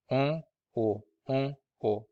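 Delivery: "on"鼻化，"O"不鼻化; nasal on versus oral O. Shown as a demonstration. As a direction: contrast nasal "on" with plain "O". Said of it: "the counterpart is O".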